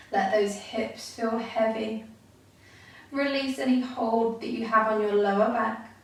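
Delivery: calm, unhurried meditation guide with long pauses; guided meditation. Real, not acted. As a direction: guide listeners gently into stillness, leaving space between phrases.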